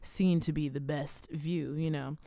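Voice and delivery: steady sponsor read. Acted. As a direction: read the ad copy evenly.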